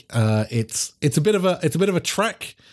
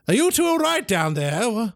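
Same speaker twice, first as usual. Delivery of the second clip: higher voice calling down from above; echoing from above; 8 semitones higher than usual. Acted. Boss calling down from above, voice echoing. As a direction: call down the stairwell, echoing. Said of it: "this voice echoes down".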